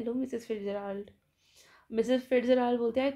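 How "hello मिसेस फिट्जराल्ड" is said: pained. Retold or imitated. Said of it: "दर्द भरी आवाज़ में बोलती है".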